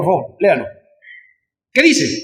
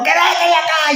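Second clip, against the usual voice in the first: retold shout; 5 semitones higher than usual.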